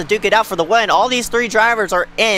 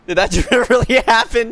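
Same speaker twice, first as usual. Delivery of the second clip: laughing disbelieving question; shocked laughter; 3 semitones higher than usual. Real, not acted. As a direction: laugh between the words.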